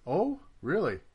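high mock-innocent "Oh, really?"; sarcastic. Needling the opponent over the bunker, mock surprise. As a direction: act surprised to needle him.

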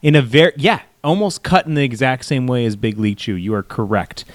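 upbeat sponsor pitch voice; ad read. Acted. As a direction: sell it like a cheesy ad host. Reads a sponsor ad.

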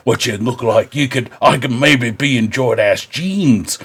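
rambling mock British accent; hammy British knight improvising a monologue; Kit Harington. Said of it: "my Kit Harington impersonation".

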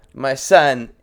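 hammed-up accent, lightly done; bad African accent. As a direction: put on a clumsy foreign accent. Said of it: "Wrong accent".

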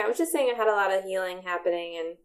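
fast, glitchy robotic call audio; broken up like a robot on a bad line. Real, not acted. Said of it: "you sound like a robot again".

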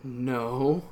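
far from mic. Real, not acted. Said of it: "Why does it sound like you're far away?".

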